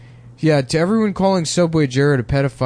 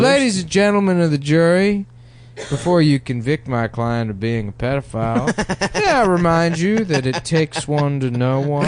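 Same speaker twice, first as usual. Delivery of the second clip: defense attorney. Pretend. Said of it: "as a defense attorney".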